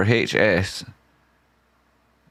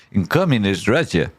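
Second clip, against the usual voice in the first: put-on Russian accent. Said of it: "Soviet Russian accent".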